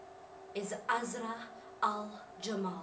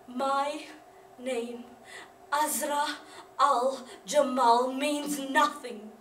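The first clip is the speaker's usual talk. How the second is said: loud, slow proclamation; bitter declaration; 9 dB louder, much slower than usual. Acted. Disgraced woman declaring her name worthless, bitter declaration. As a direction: push each word out forcefully, slowly.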